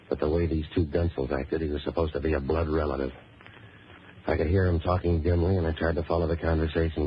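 dry, even storytelling voice; hard-boiled narration. Acted. Hero recounting a rough car ride, hard-boiled narration. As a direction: tell it wearily level, like a private eye.

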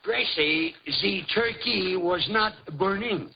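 slow, stilted mock French accent; deliberate French-accented English; put-on French accent. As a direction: labour each word in a fake French accent. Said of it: "at least use a French accent".

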